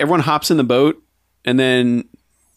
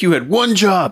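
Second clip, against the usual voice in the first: higher-pitched comic scolding; mock exasperation; 7 semitones higher than usual. Keith scolding Rose off boat, mock exasperation. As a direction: scold in disbelief, played for laughs. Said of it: "Keith is just like".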